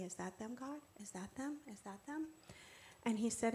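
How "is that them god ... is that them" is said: soft, searching questions to God; hushed asking. Retold or imitated. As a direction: ask quietly, hoping each time.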